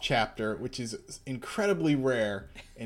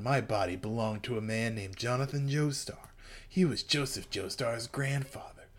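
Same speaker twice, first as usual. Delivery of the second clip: hushed Dio voice; 5 dB quieter than usual. Acted. Voicing Dio explaining his body.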